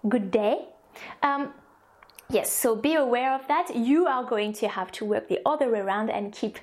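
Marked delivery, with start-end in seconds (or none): 0.1-0.7 "good day" with no glide in "day"; short French-accented "good day"; French-accented short vowel. Shown as a demonstration. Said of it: "we say".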